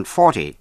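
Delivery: forty with the weight on "for"; stress on first syllable. Shown as a demonstration. Teacher showing listeners how forty differs from fourteen, first syllable stressed. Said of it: "nhấn vào vần thứ nhất".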